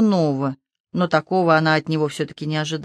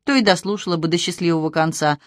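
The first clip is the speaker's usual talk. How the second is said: didactic. Acted. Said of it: "назидательно заметил Матвей".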